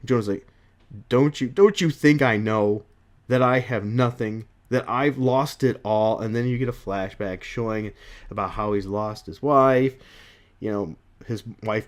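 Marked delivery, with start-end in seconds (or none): 1.1-6.2 mildly upset, emphatic delivery; a touch of anguish; upset Jonah Jameson. Acted. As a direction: act out a wounded protest. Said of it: "he's just upset".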